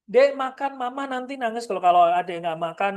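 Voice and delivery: a touch of a pleading, guilt-tripping mother; mild teary-mom nudge, not logical; emotional mom appeal. Shown as a demonstration. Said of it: "itu nggak masuk di akal".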